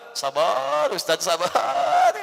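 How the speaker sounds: drawn-out slow shout of sabar; mock urging shout. Congregant to preacher, out of nowhere: a slow pleading shout. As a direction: stretch each sabar and shout it. Congregant suddenly urges calm.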